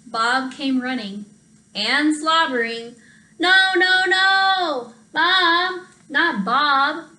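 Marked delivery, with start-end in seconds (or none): 3.4-7.1 high, loud sing-song no; frustrated wail. Acted. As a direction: cry out in childish frustration. Sick child frustrated again.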